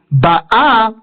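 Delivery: Ba'a with the last a drawn out and stressed; Ba'A, accent at the end; stress on final syllable. Shown as a demonstration. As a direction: lean on the second syllable of Ba'a. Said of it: "pour indiquer le présent".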